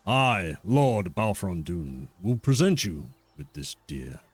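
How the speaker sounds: a hint of a stern old lord speaking down; haughty lord. GM voices Lord Balfron Dune.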